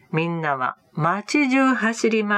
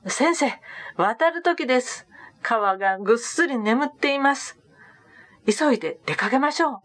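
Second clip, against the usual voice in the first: higher, hurried, breathless with good news; eager report; 5 semitones higher than usual. Acted. Disciple running back to tell the teacher, excited and hurried. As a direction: rush the last line out, urging them to go.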